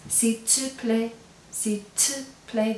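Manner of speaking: "s'il te plaît" said slowly, twice; slow and clear, showing the informal te; slow demo. Shown as a demonstration. Teacher to class, slowly modelling the informal form. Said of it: "That "tu" is telling me I'm using "tu".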